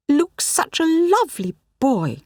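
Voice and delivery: gently apologetic curator to the worried mother. A narrator's reading. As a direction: soften the blow as the curator. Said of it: "she began almost apologetically".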